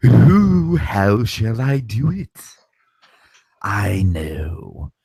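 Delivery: scheming villainess, whispers building to high cackling glee; Yzma impression. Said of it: "can I do a Yzma monologue".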